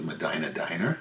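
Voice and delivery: Medina as meh-DYE-nuh, rhyming with Diner; long I in both Medina and Diner; American town pronunciation. Shown as a demonstration. Joking about going to eat there, Medina said to chime with Diner. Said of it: "it becomes Medina".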